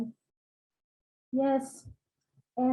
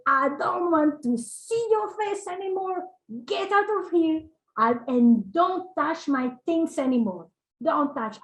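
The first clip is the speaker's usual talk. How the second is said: raised pitch, slowed, scolding guru; a mild imitation of a furious teacher throwing someone out; retold angry outburst; 4 semitones higher than usual. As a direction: lightly act out the guru's anger at the servant. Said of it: "He was so angry".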